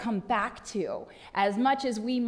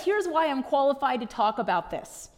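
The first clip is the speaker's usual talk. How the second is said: voicing Paul; 4 semitones higher, 4 dB louder than usual. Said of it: "And Paul says".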